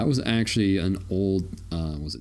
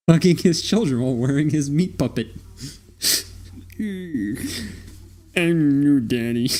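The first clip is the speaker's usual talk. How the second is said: creepy skin-wearer voice; 5 semitones higher, 3 dB louder than usual. Pretend. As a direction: play the alien in a stolen body. Alien wearing dead man's skin.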